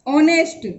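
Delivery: ऑनेस्ट begun straight on the vowel; ऑनेस्ट with its first letter silent. Shown as a demonstration. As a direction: say ऑनेस्ट with no h sound. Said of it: "लेकिन इसका उच्चारण ऑनेस्ट हो रहा है".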